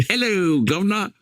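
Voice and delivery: high-pitched, imitated "'ello guv'nor" call; mock loud greeting. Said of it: "very loudly, they'd say".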